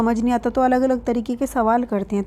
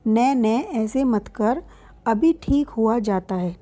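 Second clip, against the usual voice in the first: coaxing mother; slower than usual. Retold or imitated. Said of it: "माँ पूछती है उसे पुचकार कर".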